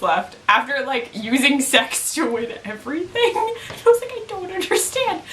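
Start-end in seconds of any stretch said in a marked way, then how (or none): 3.7-5.2 laughing. Real, not acted. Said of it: "I was cracking up".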